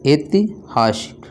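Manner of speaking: ऐतिहासिक drawn out slowly, syllable by syllable; slow careful pronunciation. Shown as a demonstration. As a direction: spell ऐतिहासिक out slowly for the class. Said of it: "ऐसे".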